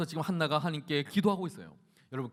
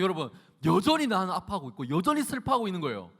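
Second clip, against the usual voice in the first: raised, driving sermon voice; forceful preaching; 7 semitones higher, 6 dB louder than usual. Acted. Preacher warning youth about empty nights out, forceful preaching. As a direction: press the rebuke on listeners.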